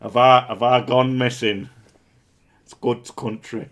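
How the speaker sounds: put-on loud, laughing rural Northern England accent. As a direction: bellow it like a country Northern England farmer. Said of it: "going more rural now".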